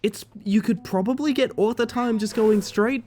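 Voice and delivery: breathy high whispered aside. Real, not acted. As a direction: whisper the tip to yourself. Aside on game route.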